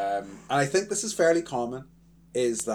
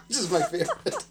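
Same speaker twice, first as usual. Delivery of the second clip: giggling through the punchline; corny dad laugh; 12 semitones higher, 6 dB louder than usual. Real, not acted. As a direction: laugh at your own pun. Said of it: "laughing at my own joke there".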